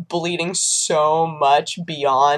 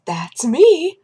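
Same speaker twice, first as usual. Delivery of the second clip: higher, voiced, exultant announcement; mock proud delight; 8 semitones higher than usual. Woman walks up to desk, mock proud delight. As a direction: announce yourself with a raised, swooping voice. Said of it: "starts walking and goes".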